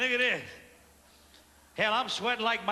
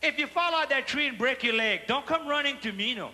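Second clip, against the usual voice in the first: father warning; 4 semitones higher than usual. Retold or imitated. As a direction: call across the yard like dad. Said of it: "Daddy come out".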